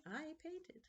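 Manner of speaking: whispered aside; a whispered confession. Real, not acted. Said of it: "unvoiced whisper".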